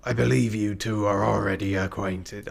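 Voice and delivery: basic pirate voice, a touch tipsy; lightly voiced drunk sea captain; piratey captain. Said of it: "Piratey, yeah, the basic one".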